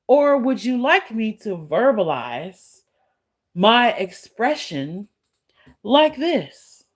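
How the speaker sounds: lightly hammed-up proper speech; mock proper voice. Shown as a demonstration. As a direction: put on a mock-proper manner for the troll. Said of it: "how you want me to talk then".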